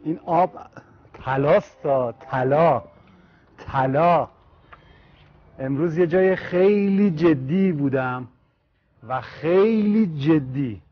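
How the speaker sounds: loud, cold-shocked exclamations; shouting through the cold shock; in ice cold water. Real, not acted. Actor doused with cold water.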